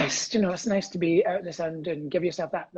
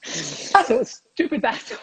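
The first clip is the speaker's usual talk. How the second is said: slow and louder, spell out the pun name; slow pun delivery; 3 semitones higher, 5 dB louder, slower than usual. Acted. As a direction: let the joke land slowly.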